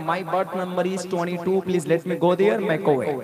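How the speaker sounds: Indian English, slow and spelled out. Shown as a demonstration. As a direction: say it slowly in plain Indian English. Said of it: "हम लोग ट्वेंटी टू बोल देते हैं".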